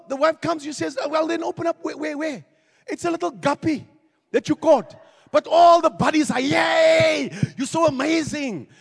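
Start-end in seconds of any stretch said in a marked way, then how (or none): 1.0-4.9 mocking wife. Wife mocking small catch. 6.4-8.7 mock cheering buddies.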